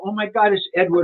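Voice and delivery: starstruck. Retold or imitated. Guest retells spotting Edward outside, starstruck. Recognizing the star getting out.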